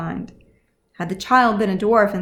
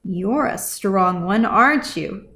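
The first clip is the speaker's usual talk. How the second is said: smiling; slower than usual. Acted. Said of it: "he smiled".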